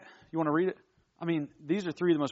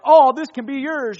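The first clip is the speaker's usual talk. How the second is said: generous offer; 7 semitones higher, 9 dB louder than usual. Retold or imitated. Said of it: "And God's like".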